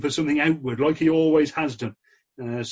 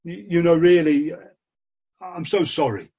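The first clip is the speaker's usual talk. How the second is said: a preacher's mild pleading voice, a little higher and louder; pleading Saul; 4 semitones higher, 3 dB louder than usual. Retold or imitated. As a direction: beg like a humbled king on his knees, lightly acted. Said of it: "perhaps he falls before him. And he says".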